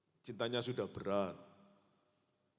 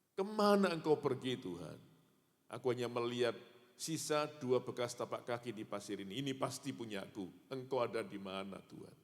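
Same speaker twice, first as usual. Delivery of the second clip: pleading, voice rising to a tearful cry; begging God not to leave him; a man in tears cries out to God; 2 semitones higher than usual. Acted. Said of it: "Dia kembali menangis dan berkata".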